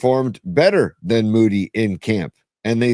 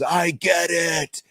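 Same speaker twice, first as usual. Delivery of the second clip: Tony Soprano yell; 7 semitones higher, 4 dB quieter, much slower than usual. Retold or imitated. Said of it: "yell to the high heavens".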